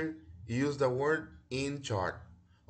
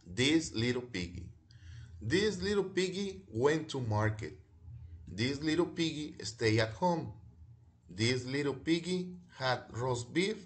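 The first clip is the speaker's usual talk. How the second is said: reading the rhyme again; 3 semitones higher than usual. Shown as a demonstration. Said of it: "One more time".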